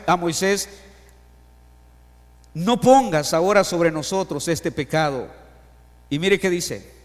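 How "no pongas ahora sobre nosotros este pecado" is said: loud slow plea. Acted. Rereading Aaron's plea with force.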